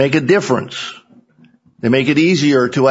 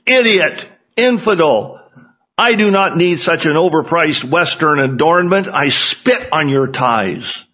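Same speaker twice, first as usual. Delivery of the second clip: hysterical shouting; 4 semitones higher than usual. Acted. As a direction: scream the insults, then drop back down. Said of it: "The Taliban shouted hysterically".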